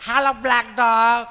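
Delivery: slow, loud, prim English call; loud call to a dog. Retold or imitated. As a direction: summon the black dog like a teacher. Educated lady calls black dog. (કાળી કૂતરીને મોટેથી ધીમો સાદ)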